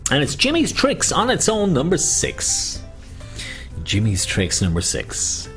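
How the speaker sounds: sing-song bingo call; bingo caller. Acted. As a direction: call the numbers out. Calling bingo numbers.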